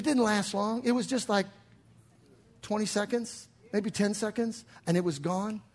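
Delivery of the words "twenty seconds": ordinary delivery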